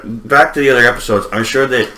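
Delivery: talking around a cigarette; words mumbled past a cigarette; cigarette in mouth. Real, not acted. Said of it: "I keep talking with a cigarette in my mouth".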